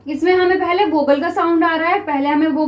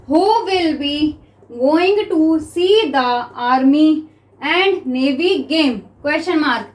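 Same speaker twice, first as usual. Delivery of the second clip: very slow, measured dictation; spaced-out classroom dictation; dictation reading; much slower than usual. Shown as a demonstration. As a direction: read it word by word for note-takers. Reads out next dictation sentence.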